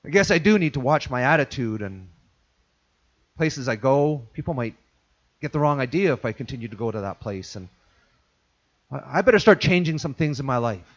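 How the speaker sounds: low, soft self-talk; quiet inner resolve. Retold or imitated. Repentant listener thinking it over, low and soft. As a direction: murmur it as a dawning conviction. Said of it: "then that voice starts to go".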